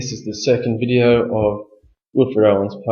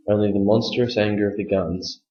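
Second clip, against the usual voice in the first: poem reading; 4 dB quieter than usual. Shown as a demonstration. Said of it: "here's the reading for you".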